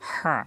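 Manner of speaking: হা squeezed from the throat; pressed throaty হা. Shown as a demonstration. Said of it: "আমরা চেপে বলবো".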